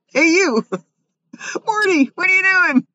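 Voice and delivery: high squeaky dolphin calling a friend. Acted. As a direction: chirp it like a dolphin. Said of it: "Dolphin give names to each other".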